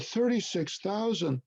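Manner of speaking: a hint of a tearful client begging; imitating Russian client. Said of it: "She said it with a Russian accent".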